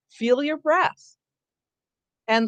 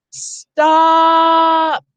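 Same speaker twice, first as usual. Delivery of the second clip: long, high, loud yell; warning shout; 7 semitones higher, 5 dB louder than usual. Shown as a demonstration. Sibling shouting to stop a brother running into the street, loud yell. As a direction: stop your brother before the car hits. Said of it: "get his attention because you see a car".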